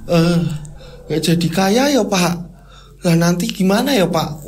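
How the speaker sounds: dazed wife starting to babble; lightly acted wandering, unhinged wailing; babbling half-crazed. Wati to her husband after the fire, half-crazed babbling. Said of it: "caranya ngomong Wati mulai ngiguk".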